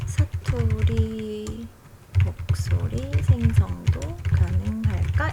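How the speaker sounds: very slow, word by word typing pace; slow dictation. Shown as a demonstration. Host dictating a search query, very slow and spaced. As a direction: spell it out as you type. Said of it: "이렇게 한번 해보죠".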